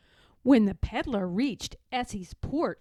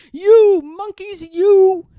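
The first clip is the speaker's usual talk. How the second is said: loud, high, slow scolding; 9 semitones higher, 17 dB louder, slower than usual. A narrator's reading. Peddler scolding the monkeys in his tree, loud angry scold. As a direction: shake a finger at them with your voice. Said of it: "shaking his finger at them".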